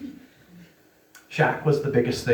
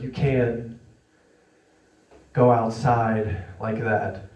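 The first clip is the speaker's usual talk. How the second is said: grave, slow fatherly warning; serious tone; 4 semitones lower, slower than usual. Retold or imitated. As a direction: say it like a stern dad who means it. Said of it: "in a very serious tone".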